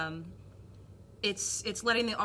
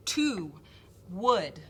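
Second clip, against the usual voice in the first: "to" and "wood" said apart, "wood" falling; stressed words; 4 dB louder than usual. Shown as a demonstration. Teacher showing the stressed syllables "to" and "wood". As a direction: lift "to", pause, land "wood" with a fall. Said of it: "on the stressed syllables, you see".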